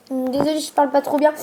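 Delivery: talking around a lollipop; mouth full. Real, not acted. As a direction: lollipop in the mouth, words muffled. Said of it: "J'ai une sucette dans la bouche".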